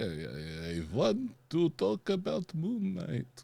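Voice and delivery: put-on vampire voice. Trying out voices with others, the speaker does a Dracula voice. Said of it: "that's a good Dracula".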